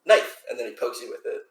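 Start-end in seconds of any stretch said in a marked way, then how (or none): 0.1-0.4 high, louder one-word exclamation; little kid. Acted. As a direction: pipe it up like a proud small child. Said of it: "and he says".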